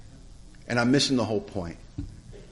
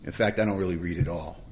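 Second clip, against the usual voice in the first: low, softer hesitant admission; sheepish; 4 semitones lower, 6 dB quieter than usual. Retold or imitated. Newcomer confessing to his sponsor, sheepish. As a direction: own up haltingly, voice dropped. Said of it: "Donnie got sheepish and looked at his feet".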